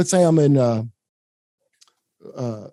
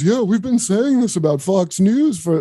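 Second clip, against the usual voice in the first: slow, smug put-on anchor voice; a hint of pompous TV pundit; mocking Stelter; 5 semitones higher than usual. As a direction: lightly parody a self-satisfied host. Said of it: "So then Brian Stelter goes".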